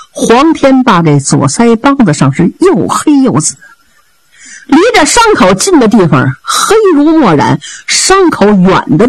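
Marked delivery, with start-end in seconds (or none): none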